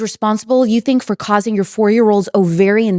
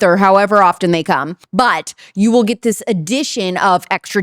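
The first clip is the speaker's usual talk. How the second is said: upbeat sponsor ad read. Acted. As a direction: sell it like a podcast ad. Host reads sponsored ad.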